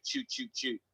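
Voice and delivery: soft, high volley of shots; mimicked gunfire. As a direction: imitate quick gunshots under your breath. Imitating rapid action-game shooting.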